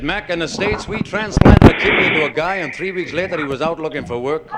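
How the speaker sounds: lightly voiced American bragging in a pub; American accent. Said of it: "One was an American".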